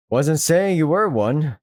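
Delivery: slowed, laughing through the line; slow laughing second take; laughing retake. Acted. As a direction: redo it slowly with a laugh. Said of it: "Wait, did I say?".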